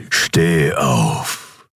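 distorted, commanding emperor; low, distorted command from the throne. A narrator's reading. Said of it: "tönte die verzerrte Stimme des Kaisers". (verzerrte Kaiserstimme)

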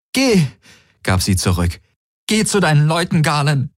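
high, hurt dismissal; Kirai, raw with hurt. A narrator's reading. Kirai sends Galen away, raw with hurt. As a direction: send him away through the pain. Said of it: "wie eine rohe Wunde".

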